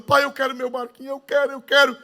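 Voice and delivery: high pleading little boy, a hint of tears; whining child. Boy begging his father for the boat, lightly voiced whining. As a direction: beg like a child wanting his toy. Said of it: "o menino chorando".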